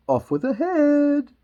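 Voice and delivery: high, loud, drawn-out royal scream; screaming Queen. Acted. Queen furious at Alice, screaming. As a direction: scream the order, stretching it out.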